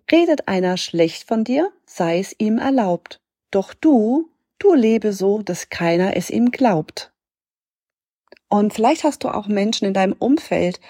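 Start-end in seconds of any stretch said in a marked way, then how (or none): 0.1-7.1 measured reading of a short verse; poem recital. Acted. Coach sharing a little poem that helped her, measured recital. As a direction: recite it line by line, with pauses.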